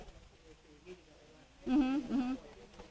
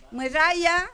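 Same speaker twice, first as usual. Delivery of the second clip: "Muera ya" with RA raised and stressed; stress on second syllable; 4 semitones higher than usual. Shown as a demonstration. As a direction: lift and lean on RA in "Muera ya". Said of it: "En la segunda".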